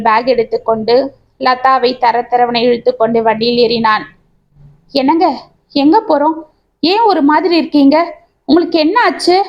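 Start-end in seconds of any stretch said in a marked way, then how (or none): 4.9-9.4 a touch of panic, voice a bit raised; mildly anxious questions to her husband; panicked. Acted. Wife frightened by her husband's strange mood, lightly panicked. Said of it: "என்று பதறினாள் லதா".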